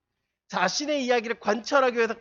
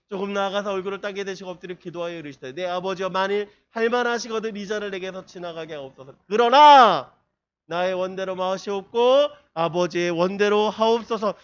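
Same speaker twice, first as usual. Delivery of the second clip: solemn, measured Bible reading; scripture reading; 4 dB louder than usual. Acted. Preacher reads Jesus' Gethsemane prayer to the congregation, solemn. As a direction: read the verse with weight, slowing at the end.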